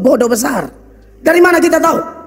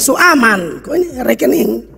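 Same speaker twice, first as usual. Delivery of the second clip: Kupang dialect, casual; slower than usual. Retold or imitated. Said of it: "pakai bahasa Kupang".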